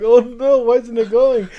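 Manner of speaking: loud, high, flustered outburst; comic panicked yelp; mock panic. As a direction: act out panicking at a car that won't go. Acting out panic at stalled car.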